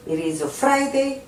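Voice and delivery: very slow, every word laid out; slow model reading. Shown as a demonstration. Teacher to Korean learners, slow model reading. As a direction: spell it out slowly for learners. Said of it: "teacher models an answer".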